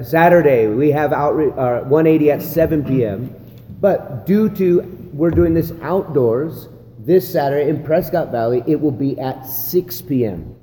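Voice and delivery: announcement read with lively inflection, stressing the day and time; inflected announcement. Shown as a demonstration. Pastor demonstrating an announcement to trainees, with emphasis. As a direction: lean on the key words like a TV anchor. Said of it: "You can give some inflection, you can give some emphasis".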